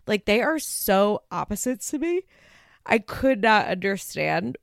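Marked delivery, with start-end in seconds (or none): 2.8-4.6 words stretched by a yawn. Real, not acted. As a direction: say it mid-yawn.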